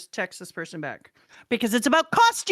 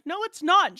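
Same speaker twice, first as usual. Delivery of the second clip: firm contradiction; 7 semitones higher, 4 dB louder than usual. Retold or imitated. Teacher's contradiction in retold quarrel.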